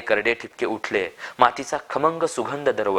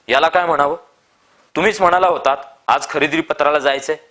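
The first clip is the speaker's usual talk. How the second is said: bewildered protest; 5 semitones higher, 5 dB louder than usual. A narrator's reading. Farmer protests to Appa.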